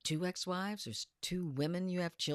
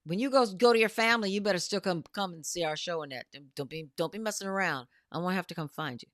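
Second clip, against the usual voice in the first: mock stern warning; 6 dB louder, faster than usual. Mock scolding Annette to attend show.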